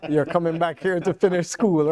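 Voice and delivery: lightly voiced strict parent; stern parents. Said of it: "My parents said".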